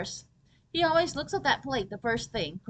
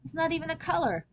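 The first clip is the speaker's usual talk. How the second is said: exasperated; 5 semitones higher than usual. Acted. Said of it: "he insists his favorite color is black".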